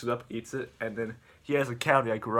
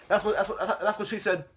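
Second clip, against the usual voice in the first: high, giggly joke through laughter; words breaking into a laugh; real laughing; 8 semitones higher, 4 dB louder than usual. Real, not acted. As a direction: crack up while making the joke. Breaks up at his own innuendo.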